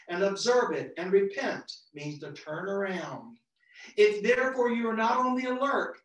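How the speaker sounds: measured, declaiming Bible reading voice; scripture reading. Acted. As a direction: proclaim the verses to the congregation. Reads scripture aloud.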